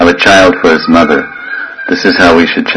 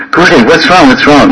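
higher-pitched, urgent mock worry; concerned disciple; 6 semitones higher than usual. Disciple to crying guru, acted worry. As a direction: plead to know the trouble. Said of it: "and he's crying".

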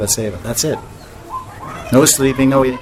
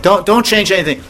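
quoted with a laugh, pitched higher; laughing higher quote; 6 semitones higher than usual. Retold or imitated. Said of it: "he said".

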